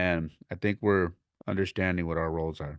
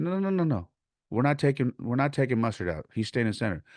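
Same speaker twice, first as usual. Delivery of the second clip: firm refusal; 6 semitones higher, faster than usual. Retold or imitated. Retold argument refusing a substitution.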